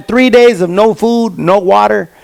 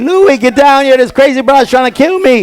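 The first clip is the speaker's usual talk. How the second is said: higher mock yell for the roommate; 6 semitones higher than usual. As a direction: call out to Louie in a mild panic. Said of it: "I start yelling".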